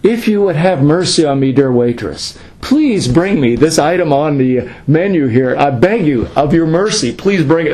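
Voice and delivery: grovel lightly as if pleading for mercy; mock begging. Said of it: "This is ridiculous".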